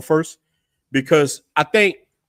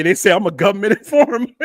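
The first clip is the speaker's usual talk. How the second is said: laughing; 4 dB louder than usual. Real, not acted. Laughs while retelling the accusation.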